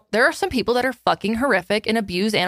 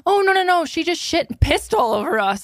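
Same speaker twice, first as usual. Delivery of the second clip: a touch higher, bright quick no no no; imitated vet tech; 8 semitones higher than usual. Retelling how the vet tech broke the news, mock cheery. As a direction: play the vet brushing it off with a laugh. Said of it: "She's like".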